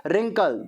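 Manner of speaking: रिंकल said as rinkal with no w sound; रिंकल read as rinkal, the written w left out; silent w. Shown as a demonstration. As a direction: say रिंकल starting straight on r, w silent. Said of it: "लिखा व्रिंकल है पर हम रिंकल पढ़ेंगे".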